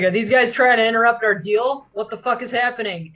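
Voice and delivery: angry bandit. Acted. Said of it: "he's like".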